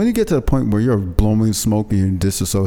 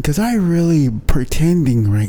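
Stuart Smalley voice. Shown as a demonstration. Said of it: "I could talk like this all day".

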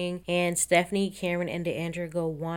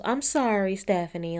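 sarcastic. Retold or imitated. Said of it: "very sarcastic with a dumbass smile".

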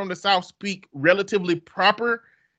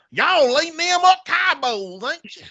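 put-on old country redneck accent; 12 semitones higher than usual. Mocking how outsiders hear Southerners, country redneck accent. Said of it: "I might as well sound like old country redneck".

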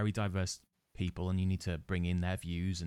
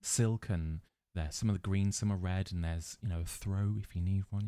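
hypnotist voice. Pretend. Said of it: "put my hypnotism voice on".

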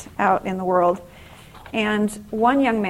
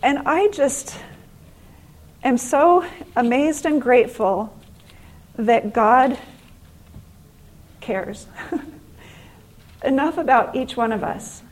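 halting, emotional gratitude with long pauses; moved, choked up; 3 semitones higher than usual. Real, not acted. Speaker thanking God after the story, moved. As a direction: overcome for a moment, pushing on through feeling.

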